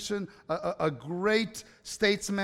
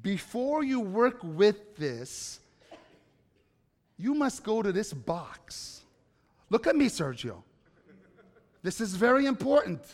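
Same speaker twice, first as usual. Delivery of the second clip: imitating stern dad. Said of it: "And then he would say".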